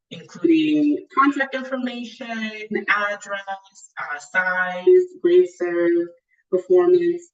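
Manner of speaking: muffled, like through a wall. Real, not acted. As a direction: voice dulled as if behind a wall. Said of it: "you sound, like, very muffled".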